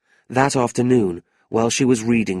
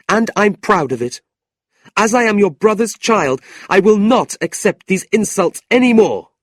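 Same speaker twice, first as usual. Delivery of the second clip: put-on a young niece burning with anger, voice pitched up high; angry young woman; 11 semitones higher, 6 dB louder than usual. Niece complaining to her uncle, high and indignant.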